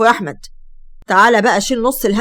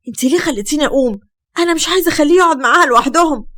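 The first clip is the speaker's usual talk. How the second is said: annoyed; 5 semitones higher than usual. Acted. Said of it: "وهي متضايقة".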